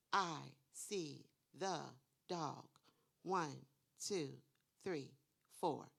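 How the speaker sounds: slow I see the dog, then counting one two three four; pointing and counting. Shown as a demonstration. Teacher modelling touching words on the board, slow. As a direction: point at each word slowly and count. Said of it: "walk up to the board and point and touch".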